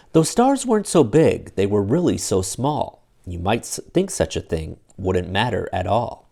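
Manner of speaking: lively read-aloud storybook voice; animated picture-book reading; story narration. A narrator's reading. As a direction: read it like bedtime for kids. Reads Dr. Seuss aloud to children.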